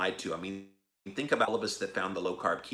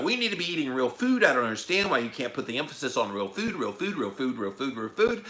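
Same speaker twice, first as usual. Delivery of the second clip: imitating insistent speaker; 3 semitones higher than usual. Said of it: "she was doing this".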